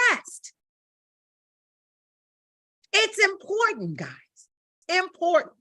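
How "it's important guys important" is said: pleading. Real, not acted. Pleading importance of vocal rest.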